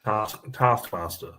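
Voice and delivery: slow demo of "Task, Taskmaster"; New Zealand pronunciation. Shown as a demonstration. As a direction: say "Taskmaster" slowly in a Kiwi accent. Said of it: "saying it the New Zealand way".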